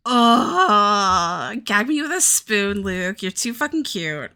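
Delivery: gushing in a mock valley girl voice; weird put-on voice. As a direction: gush over him in a silly put-on voice. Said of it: "like making weird voices".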